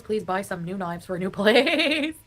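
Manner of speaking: slow, laughing begging; laughing plea. Real, not acted. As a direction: beg through laughter. Pleading while laughing.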